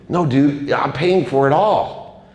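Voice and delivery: high-pitched, drawn-out plea; insistent persuasion. Retold or imitated. Persuading friend who refused the trip.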